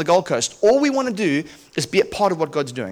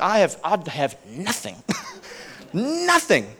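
laughing at his own emptiness; half-laughing despair; wry laugh over having nothing; rueful laugh; 6 dB quieter, slower than usual. Retold or imitated. Broke after giving money away.

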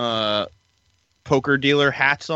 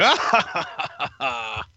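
evil genius laugh; slower than usual. Retold or imitated. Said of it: "evil genius laugh".

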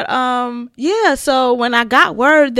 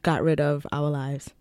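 ghost voice; 6 semitones lower, 5 dB quieter, slower than usual. Pretend. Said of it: "How does my ghost voice sound?".

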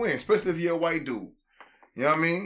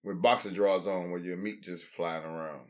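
low, put-on comic character voice; put-on joke voice; 8 semitones lower, 4 dB quieter than usual. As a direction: drop into a low silly character voice. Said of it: "that was actually his African voice".

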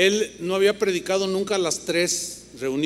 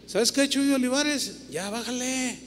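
scolding himself; 5 semitones higher, 4 dB quieter than usual. Retold or imitated. Talking to himself in mirror.

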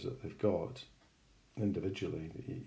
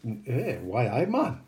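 light Geordie greeting with raised pitch; Geordie accent; 3 semitones higher, slower than usual. Acted. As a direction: put on a hint of Geordie. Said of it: "That was my Geordie accent".

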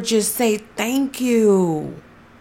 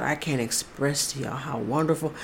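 choked up; 7 semitones lower, 11 dB quieter than usual. Real, not acted. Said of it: "I'm trying not to cry".

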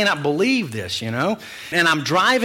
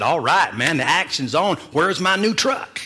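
cash in the promise, grinning; eager demand; 4 semitones higher than usual. Retold or imitated. Preacher demanding his new truck from God, mock eager and higher.

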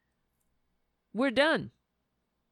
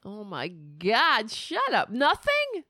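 incredulous; slower than usual. Real, not acted. Host reacting to Biden's debate clip, incredulous. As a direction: scoff at the clip in disbelief. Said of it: "reacting to clip".

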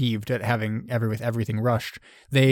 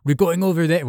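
put-on half-hearted German accent, pitched higher; attempted German accent; 6 semitones higher, 4 dB louder than usual. Paratroopers talking among themselves, a hint of a bad German accent. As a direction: have a rough go at a German accent. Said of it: "German accents".

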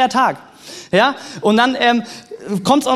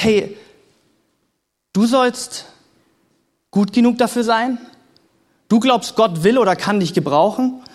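the accuser. Acted. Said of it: "dass der Ankläger kommt und".

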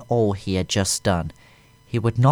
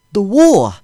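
1 whimpered; 12 semitones higher, 12 dB louder than usual. A narrator's reading. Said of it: "he whimpered".

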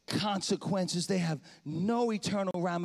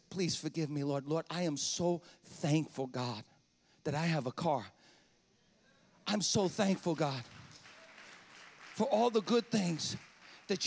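softer, lower contrite prayer; humble prayer; 4 semitones lower, 4 dB quieter than usual. Retold or imitated. Preacher retelling his quiet prayer of repentance in the car. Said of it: "the Lord struck me with conviction".

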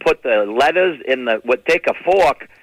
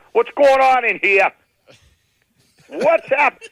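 father barging in; 9 semitones higher, slower than usual. Retold or imitated. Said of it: "my father would come in".

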